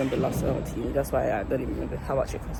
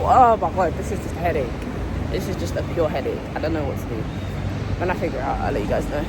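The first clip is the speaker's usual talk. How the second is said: loud exasperated rant; loud then suddenly hushed; 11 dB louder than usual. Real, not acted. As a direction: vent loudly about the mess. Exam clash, loud frustrated rant.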